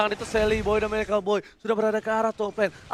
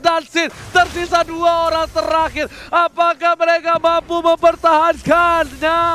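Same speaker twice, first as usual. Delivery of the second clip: excited; 5 semitones higher, 4 dB louder than usual. Real, not acted. Teamfight call continues.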